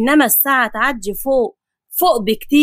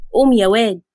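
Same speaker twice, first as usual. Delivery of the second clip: scolding. Acted. Grandfather scolds grandson awake.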